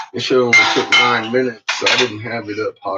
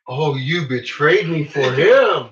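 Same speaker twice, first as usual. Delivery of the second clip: voicing the betrayed dog; 3 semitones higher, 3 dB louder, slower than usual. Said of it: "looks at Chico like".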